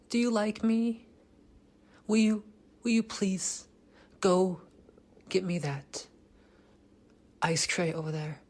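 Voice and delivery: high, meek put-on pleading voice; mock beta voice. Mocking how beta guys ask for an ice tray, high and meek. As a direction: ham up a needy nice guy. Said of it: "your voice sounds beta".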